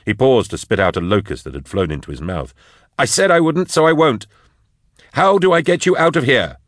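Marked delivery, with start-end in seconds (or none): 3.0-6.6 higher, louder pleading; raised anxious voice; urgent younger man, higher. Acted. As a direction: push hard to get him out. Drusha pleads at the cage.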